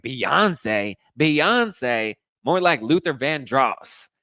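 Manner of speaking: imitated jeering diva comeback; mocking retort. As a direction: mimic a scornful reality-show put-down. Imitates reality star mocking rival.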